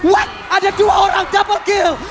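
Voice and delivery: fighting game announcer. Real, not acted. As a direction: shout the kill like an announcer. Caster hyping a double kill.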